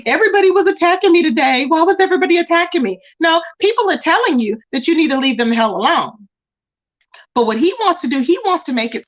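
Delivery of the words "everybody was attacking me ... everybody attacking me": imitating a whiny complaint, slightly raised; lightly mock his whining. Streamer mocks a rival complaining about being attacked, mock whining. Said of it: "he's over there whining about".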